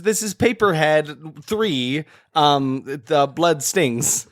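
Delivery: slow dramatic trailer announcer; movie trailer voice. Pretend.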